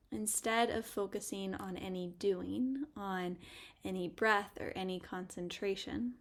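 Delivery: gentle meditation guide with long pauses; guided meditation. Acted. Podcast host guiding listeners to pause and notice, guided meditation. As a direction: lead listeners inward, leaving space between phrases.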